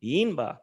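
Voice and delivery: Imba with a high, rising first syllable, then falling. Shown as a demonstration. Lecturer echoes the example, high tone on Im of Imba. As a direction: lift the pitch up through "Im" in "Imba", drop on "ba". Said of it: "You hear that high, that rise".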